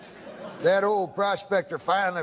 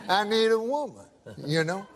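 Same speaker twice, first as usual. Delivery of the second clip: drawling prospector voice. Retold or imitated. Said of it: "That's how he talks".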